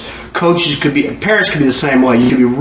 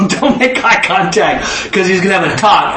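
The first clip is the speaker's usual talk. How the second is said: laughing whisper-warning; 3 semitones higher than usual. Retold or imitated. Child warns siblings at dinner not to meet dad's eye, laughing. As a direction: tell your brother not to look, giggling.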